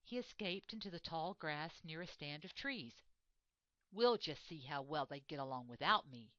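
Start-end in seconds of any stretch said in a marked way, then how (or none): 3.9-6.3 defiant. Acted. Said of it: "he thought defiantly".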